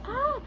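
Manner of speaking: mock yelp. Mock cry of abuse after tap.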